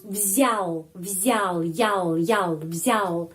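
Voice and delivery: взял repeated, stressed я drawn out. Shown as a demonstration. Teacher drills взял for students, stressing the я. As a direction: lean on the я in взял. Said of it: "huruf ya di sini mendapat penekanan".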